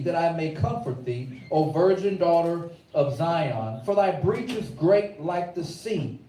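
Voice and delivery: measured preacher reading; scripture reading. Acted. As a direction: read the verse with weight.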